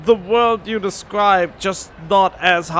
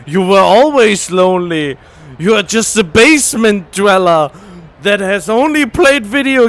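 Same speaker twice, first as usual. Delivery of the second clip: louder hammed-up villain taunt; mock villain voice; 4 dB louder than usual. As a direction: play the villain, taunting loudly.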